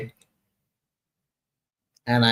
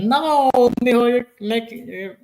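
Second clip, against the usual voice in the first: mimicking an older Puerto Rican woman, much higher and louder; friend's voice; 13 semitones higher, 6 dB louder than usual. Imitating the older friend answering him, high and loud. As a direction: squeal it out high and loud like a laughing auntie. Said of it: "And she said".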